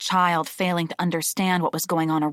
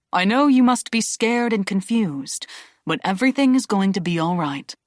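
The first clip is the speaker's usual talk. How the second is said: calm and level. Acted. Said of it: "His voice was calm, level, non-confrontational".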